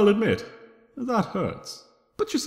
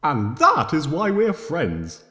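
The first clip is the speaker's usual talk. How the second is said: gleeful exclaim; 4 dB louder, slower than usual. Acted. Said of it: "I exclaim".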